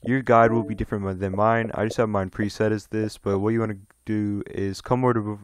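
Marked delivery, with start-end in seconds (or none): 3.2-5.4 tripping over the words; stumbling, halting delivery; stuttering. Real, not acted. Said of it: "damn, I'm stuttering".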